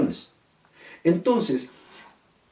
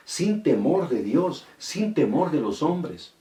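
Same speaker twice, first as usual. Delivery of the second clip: each sin stretched out slowly and stressed; slow emphatic preaching; 3 semitones higher, slower than usual. Acted. Preacher warns the congregation, slow heavy stress on sin. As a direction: drive every sin home, slowly.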